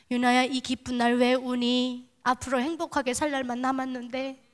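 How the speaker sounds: gentle comfort. Retold or imitated. Mother gently lifting crying daughter.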